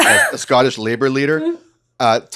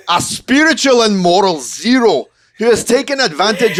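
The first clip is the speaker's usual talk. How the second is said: put-on lightly done Scottish accent; 4 semitones higher than usual. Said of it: "do my Scottish one".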